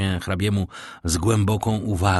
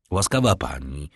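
gravely; 5 semitones lower than usual. Acted. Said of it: "odparł poważnie Monte Cristo".

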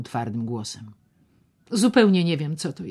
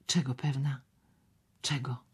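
startled whisper; 5 dB quieter than usual. Acted.

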